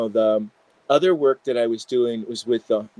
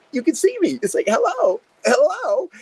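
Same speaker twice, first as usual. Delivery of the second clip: high, airy otherworldly greeting; ethereal vision woman. Retold or imitated. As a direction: sing out like an apparition.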